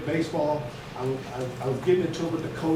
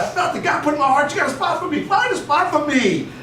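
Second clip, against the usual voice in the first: higher and louder, the last line slowed; insistent loud; 7 semitones higher, 5 dB louder than usual. Retold or imitated. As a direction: push hard, then spell out the demand. Insisting to the coach.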